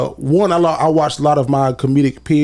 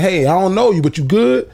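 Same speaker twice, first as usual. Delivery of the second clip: a bit higher, curt and distant; blunt greeting, higher; 4 semitones higher than usual. Shown as a demonstration. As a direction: greet a stranger coolly. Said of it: "Instead of saying".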